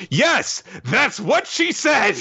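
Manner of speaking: very high, slowed cartoon voice; mock manga dialogue in a squeaky high pitch; hammed-up exclamation. Answering Amato's question about Ada's crush, high hammed-up exclamation. Mocking manga characters restating things.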